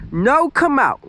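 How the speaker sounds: put-on high toddler voice; small child pleading; little girl voice. A narrator's reading.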